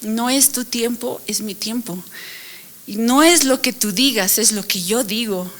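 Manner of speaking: measured, deliberate correction; very clear. Retold or imitated. The Lord answers her in the dentist's chair, very clear. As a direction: lay it down clearly, contrasting each half. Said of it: "fue así como que bien claro".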